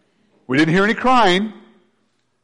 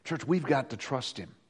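softer, lower Church, we've got to trust him; soft plea; 3 semitones lower, 13 dB quieter than usual. Shown as a demonstration. Preacher urging the church softly. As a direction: say it gently to the church.

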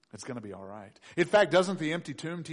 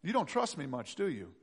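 gentle Jesus; 6 dB quieter than usual. Acted. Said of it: "Jesus said".

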